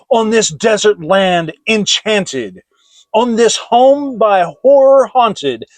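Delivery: loud, high, anguished pleading; desperate plea. A narrator's reading. Tormented lover begging the raven for answers. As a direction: demand the truth from the raven.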